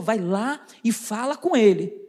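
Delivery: slow, low, firm command; firmer command. Retold or imitated. The Holy Spirit insisting he go talk to the man, firm. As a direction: lay it down firmly and unhurried. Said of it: "falou meio de, mais firme comigo".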